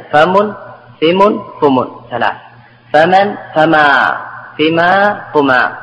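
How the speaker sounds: فم then فما with changing vowels; slow, recite each form; vowel variants. Shown as a demonstration. To students, reviewing all forms of فم. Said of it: "إذن".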